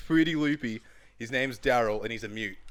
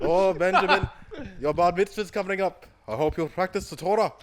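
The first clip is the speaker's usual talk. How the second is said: put-on raised, loud old Jewish mother type; old Jewish man voice; 7 semitones higher, 5 dB louder than usual. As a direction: nag like an old Jewish relative. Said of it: "this Jewish, old man Jewish voice".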